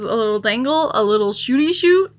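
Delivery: mock broadcaster excitement; imitating Mosier's call. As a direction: hype up the little dangle. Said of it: "Mosier goes".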